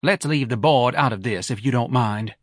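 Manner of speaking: Mrs Levy's voice. Acted. Wife sniping at her husband who skipped the races. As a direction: needle him with every word.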